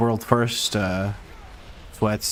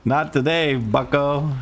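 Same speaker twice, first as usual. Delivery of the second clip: playful taunt; 4 semitones higher, slower than usual. Real, not acted. Taunting after escape.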